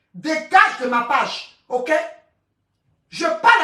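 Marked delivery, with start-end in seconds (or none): 0.1-1.9 slow dismissal. Real, not acted. Ordering a commenter off her page.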